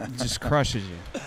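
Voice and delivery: laughing through the words; slow, laughing half-shout. Real, not acted. Laughing about JT's crushing pressure.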